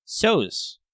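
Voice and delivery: words stretched by a yawn. Real, not acted. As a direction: talk through a yawn. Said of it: "Yawny breath".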